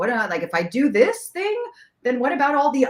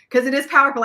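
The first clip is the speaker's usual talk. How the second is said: quick, high, laughing; 7 semitones higher, 7 dB louder, faster than usual. Real, not acted. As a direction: let the laugh spill into it. Still laughing after the joke.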